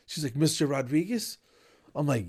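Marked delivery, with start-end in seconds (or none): 0.4-1.4 mock-perky caller, pitched higher; enthusiastic. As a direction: imitate an eager receptionist on a phone call. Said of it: "all enthusiastic".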